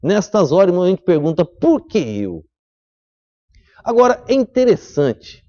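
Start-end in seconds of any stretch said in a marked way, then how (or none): 1.4-2.4 plaintive question. Acted. Preacher voicing a doubting believer.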